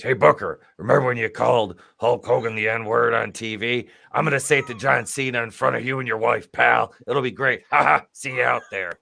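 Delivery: loud, fast hammed-up boss taunt; mock Vince McMahon. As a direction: gloat like a smug promoter. Retelling Vince McMahon's backstage talk.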